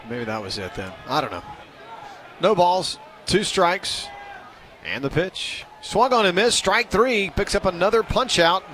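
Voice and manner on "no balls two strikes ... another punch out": raised play-by-play call, lifting on the strikeout; live play-by-play. Real, not acted. Announcer calls a swinging third strike, live play-by-play.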